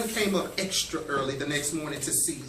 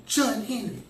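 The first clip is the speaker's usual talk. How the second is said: raised pitch, restrained shout; mild tearful cheer; 5 semitones higher than usual. A narrator's reading. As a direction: call out higher, without much volume. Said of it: "cheering and shouting through their tears".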